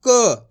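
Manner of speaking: क as a lone consonant with a bare "uh"; half-sounded last letter. Shown as a demonstration. Teacher showing how the last letter is said, क half-sounded. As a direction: sound out क by itself, not as "kaa". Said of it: "last वाले अक्षर का उच्चारण आपको इसी प्रकार से".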